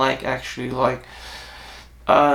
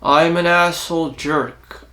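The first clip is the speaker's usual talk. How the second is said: put-on deep voice. Shown as a demonstration. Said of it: "mimic someone who has a deep voice".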